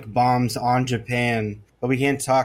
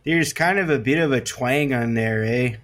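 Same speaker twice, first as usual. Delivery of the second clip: Midwestern accent. Shown as a demonstration. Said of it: "Canadian and Southern".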